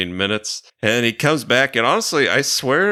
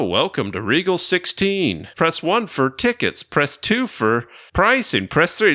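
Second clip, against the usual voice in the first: automated menu voice; 6 semitones higher than usual. Retold or imitated. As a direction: drone it like the menu again. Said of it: "an automated".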